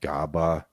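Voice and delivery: "Gaba" with voiced g and b; sounded-out pronunciation. Shown as a demonstration. Co-host trying the dialect word step by step, sounded out. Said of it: "Now try to pronounce capicola".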